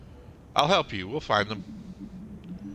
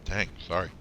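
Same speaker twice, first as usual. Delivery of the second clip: talking through hiccups; hiccuping between words; 2 semitones lower than usual. Real, not acted. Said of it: "I got the hiccups".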